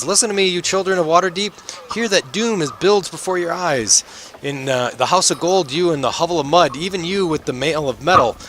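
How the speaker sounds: high, strained street-prophet voice; ranting prophet, pitched well above normal; shouting doomsayer. Acted. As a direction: proclaim doom to an indifferent crowd. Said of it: "he's, uh, shouting".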